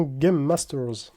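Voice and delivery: English card name in a French speaker's English accent; showy English accent. Real, not acted. Card opener reading an English card name, showy English accent. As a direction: lay on your best English accent. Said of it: "Petit avis sur mon superbe accent anglais".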